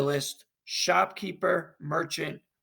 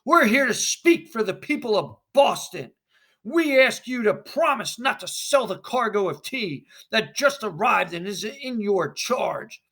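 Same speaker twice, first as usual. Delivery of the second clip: calling the merchant out loudly; angry committee member; 3 semitones higher, 4 dB louder than usual. Acted. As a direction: demand he come out. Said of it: "First committee member".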